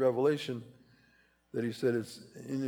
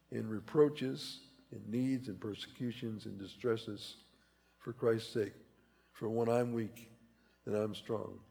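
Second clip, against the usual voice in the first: slow, dropping much softer; slow fading list; 3 semitones lower, 6 dB quieter, slower than usual. Acted. Preacher reading Paul's list to the congregation, softening. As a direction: let each word sink.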